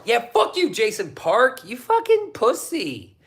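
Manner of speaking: mock angry rant. Real, not acted. Ranting at a skater.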